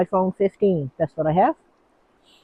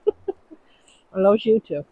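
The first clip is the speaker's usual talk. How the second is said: laughing; 4 dB quieter, much slower than usual. Real, not acted. Laughing, cooing to the pet.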